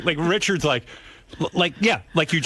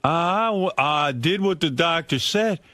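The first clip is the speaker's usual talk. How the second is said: mock sulking complaint; 4 semitones higher, slower than usual. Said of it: "He's like".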